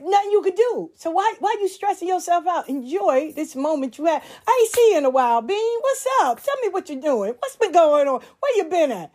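father's voice. Retold or imitated. Father cheerfully consoles stressed daughter.

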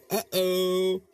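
high, loud nervous uh-oh. Retold or imitated. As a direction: sing out the dread of trouble coming. Irate customer arrives, narrator dreads it.

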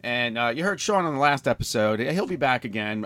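stuffed-up sinus voice; talking through a blocked nose; nasal voice. Real, not acted. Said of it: "my nasally voice".

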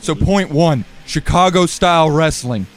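loud, menacing heel promo; wrestling promo. Acted. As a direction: cut a threatening promo.

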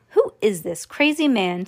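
usual speaking voice

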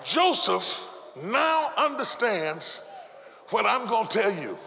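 ordinary delivery

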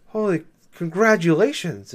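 slow, even-toned mock congratulations, no lift at all; game narrator deadpanning praise for a spin, slow and monotone. The in-game narrator congratulating the player, slow deadpan monotone. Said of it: "a monotone, like, never changes".

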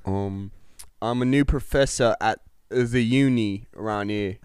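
put-on British accent, played straight. Lewis telling Tolkien his job, put-on British accent. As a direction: answer as a British don. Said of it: "work on our British accents".

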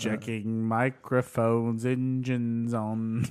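slow mission control drone; radio it in like mission control; sci fi communicator. Pretend. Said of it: "space launch parody".

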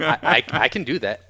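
ordinary talk

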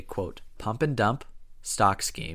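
"pump and dump" said slow and pointed; knowing slow "pump and dump"; air quotes. Shown as a demonstration. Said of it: "did it in air quotes".

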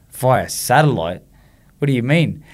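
drawn-out, disbelieving echo; incredulous. Retold or imitated. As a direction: slowly repeat it as if let down and baffled. Dismayed reaction to the announcement.

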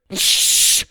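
sharp shushing hiss; hushing. Acted. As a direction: hush them urgently. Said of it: "Wonka hushed".

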